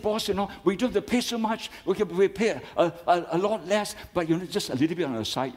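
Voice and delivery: bursting to tell the boss the fine is smaller; happy excited report. Retold or imitated. Staff member excitedly telling his boss the good news. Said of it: "He was so happy".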